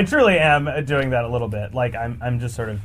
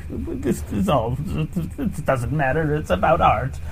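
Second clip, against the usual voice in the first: mock jaded; 2 semitones higher, slower than usual.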